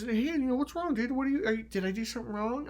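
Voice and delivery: high, pleading mock timid voice; mock scared submission. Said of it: "all submitting and being scared".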